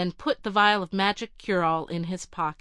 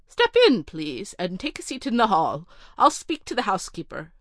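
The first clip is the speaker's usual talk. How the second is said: more polite; 3 dB louder than usual. Acted. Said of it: "more politely".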